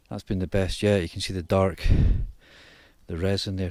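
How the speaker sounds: breathless from sawing; panting between words; out of breath. Real, not acted. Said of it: "Sorry, I'm a bit out of breath".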